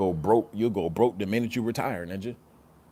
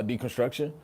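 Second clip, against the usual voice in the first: normal talking voice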